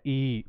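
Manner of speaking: "ई" sustained as a long ee; long vowel. Shown as a demonstration. Teacher explains the long vowel to students, drawn-out sound. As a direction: let the ee of "ई" run on. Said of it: "लंबा चल रहा है".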